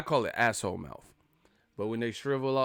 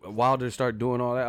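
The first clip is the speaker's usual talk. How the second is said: ordinary talk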